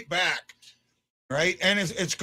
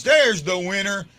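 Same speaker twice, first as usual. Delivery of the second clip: excited call; 4 semitones higher, 6 dB louder than usual. Real, not acted. Celebrating the overtime winner.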